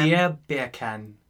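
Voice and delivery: attempted Jamaican accent, drawn out. Shown as a demonstration. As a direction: stretch it out in a put-on Jamaican accent. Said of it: "No, it was Jamaican".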